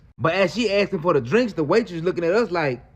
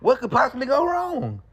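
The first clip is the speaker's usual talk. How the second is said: sarcastic; 6 semitones higher than usual. Retold or imitated. Ironic setup before disaster.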